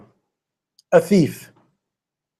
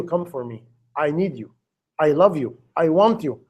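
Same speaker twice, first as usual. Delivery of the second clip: much softer, gentle and inviting; tender call; 4 semitones lower, 4 dB quieter than usual. Acted. Preacher voicing God calling the lonely, soft and tender. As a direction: coax the listener home lovingly. God's loving call voiced.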